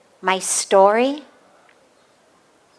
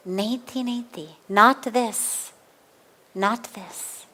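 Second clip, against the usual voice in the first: soft inner saying; 5 dB quieter, slower than usual. Shown as a demonstration. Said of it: "Say to yourself".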